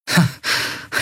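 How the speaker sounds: quiet breath of a chuckle; short soft laugh. Acted. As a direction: huff a small laugh. Relieved banter after a rescue.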